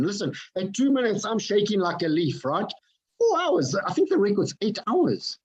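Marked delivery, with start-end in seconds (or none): 3.2-5.4 amazed. Real, not acted. Amazed at a record.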